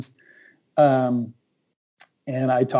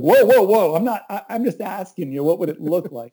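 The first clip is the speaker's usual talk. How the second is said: alarmed backpedal; 5 semitones higher than usual. Retold or imitated. To the generous pastor, startled pitched-up backpedal. Retold backing off from offer.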